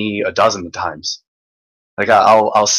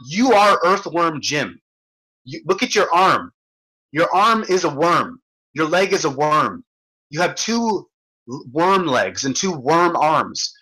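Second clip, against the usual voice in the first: slow lecture; 4 semitones higher than usual. Retold or imitated. Lecturing friend about worms.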